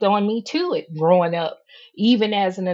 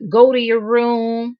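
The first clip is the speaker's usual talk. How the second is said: stern parent order; 6 dB louder than usual. Retold or imitated. Parent scolding child, quoted.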